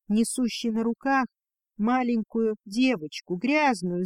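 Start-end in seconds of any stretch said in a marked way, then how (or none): none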